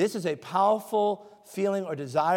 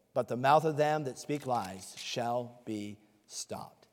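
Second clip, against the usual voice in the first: scripture reading; 2 semitones lower than usual. Acted. Preacher reads the psalm aloud to the church, solemn and measured. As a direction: read the verses reverently to the congregation.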